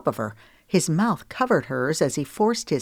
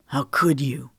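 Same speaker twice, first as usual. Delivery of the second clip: lightly voiced hurt man; 2 semitones lower than usual. Cash accuses.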